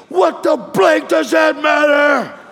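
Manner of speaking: slow, shouted biker's snap; injured biker yelling at the preacher, slow mock anger; mock angry retort. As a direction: throw it back slowly like an angry hurt man.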